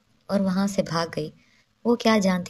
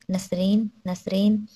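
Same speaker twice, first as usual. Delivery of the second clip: calling the maid by name, mildly raised; angry call; slower than usual. Acted. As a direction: call her name twice, a touch angry. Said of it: "غصے سے اس نے زوردار آواز سے".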